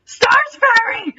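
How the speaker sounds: high, slow, loud calling of her name; joyful cry. Acted. Legolas seeing his love on the hill, crying out in joy. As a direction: call out to her in delight. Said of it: "Legolas cried".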